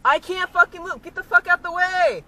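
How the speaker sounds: furious shouting; berserk rage. Real, not acted. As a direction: scream at the car blocking you. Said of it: "don't yell".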